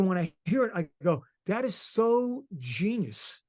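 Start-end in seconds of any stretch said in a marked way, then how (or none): 1.5-3.4 slow, drawn-out words of amazement; awed realization. Retold or imitated. Musician recalling his own reaction to the album, slow and awed. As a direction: let it dawn on you slowly, in awe.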